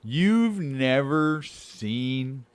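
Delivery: slow, stretched mock shock; drawn-out disbelief. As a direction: drag out the disbelief.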